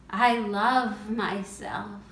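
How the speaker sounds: firmer affirmation. Acted. Affirmation repeated, growing firmer.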